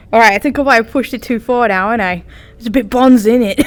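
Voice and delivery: lightly put-on Aussie accent; Australian accent. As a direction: joke along in mock Australian. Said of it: "terrible accents".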